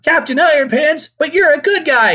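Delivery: high, loud shocked hero. Retold or imitated. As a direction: gasp it out in disbelief.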